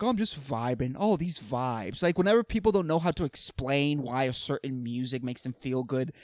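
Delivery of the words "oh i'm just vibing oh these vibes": mock stoner vibing. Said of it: "just people are like".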